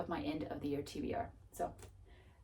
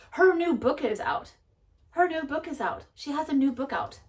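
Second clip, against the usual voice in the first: excited; 7 semitones higher, 5 dB louder than usual. Real, not acted. Excited news of author's new book.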